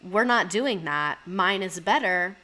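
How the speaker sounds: slow, dismissive mock man; mocking arrogant man. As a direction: drag it out like a smug guy. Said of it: "men will be like".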